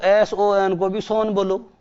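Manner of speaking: letters spelled slowly one by one; slow spelling out. Shown as a demonstration. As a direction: spell it out slowly to prove the point. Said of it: "मुझे ये भी बताओ".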